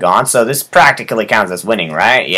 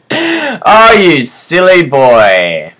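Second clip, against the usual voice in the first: mock teasing; 4 semitones higher, much slower than usual. Teasing the cat character.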